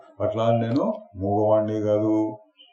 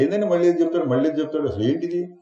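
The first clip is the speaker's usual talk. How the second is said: higher-pitched fed-up complaint; mock exasperation; 6 semitones higher, much faster than usual. Imagined student tired of repeated teaching, mock exasperated. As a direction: voice a listener's weary protest, pitched up. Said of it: "అని విసుగు వస్తుంది".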